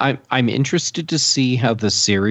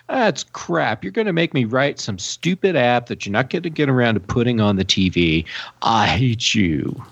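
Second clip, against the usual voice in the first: mock griping, dragging out the last words; hammed-up resentful rant; disgruntled programmer; 3 semitones higher than usual. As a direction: grumble like someone stuck with a pointless job. Acts out the resentful app programmer.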